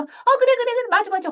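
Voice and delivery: high, brushing-off mom voice; placating mom. Acted. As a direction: humor the kid, high and quick. (아이를 달래는 엄마, 높고 건성인 목소리)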